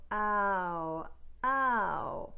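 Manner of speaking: "ow" starting on open ah; plain American "ow"; standard American ow. Shown as a demonstration. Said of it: "In standard American speech".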